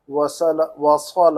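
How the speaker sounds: slow وصل with a heavy Arabic ص; emphatic Arabic ص. Shown as a demonstration. Teacher corrects the student's reading, slow heavy ص in وصل. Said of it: "اب سواد کی آواز نکالیں گے".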